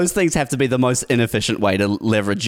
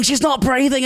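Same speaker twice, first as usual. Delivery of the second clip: mock panic; 14 semitones higher than usual. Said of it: "And I'm like".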